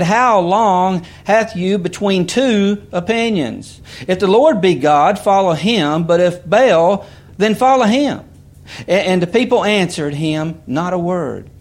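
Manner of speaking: emphatic preacher reading the Bible aloud; scripture reading. Real, not acted. Reads scripture aloud to congregation.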